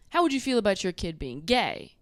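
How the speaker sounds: put-on plain, casual "How would you feel about your kid being gay?"; straight man version. Shown as a demonstration. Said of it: "A straight man would say".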